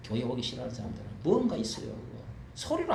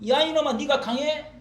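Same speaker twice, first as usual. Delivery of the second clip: taunting challenge; 11 semitones higher, 7 dB louder than usual. Retold or imitated. Stronger man challenging.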